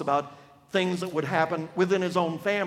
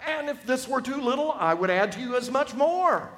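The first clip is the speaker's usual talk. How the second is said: prophet's anger; 2 semitones higher than usual. Acted. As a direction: thunder God's charge at the king. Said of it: "I'm portraying his anger".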